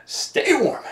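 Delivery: jumps up high, playful; high sing-song. Real, not acted. Playful high send-off to chilly viewers.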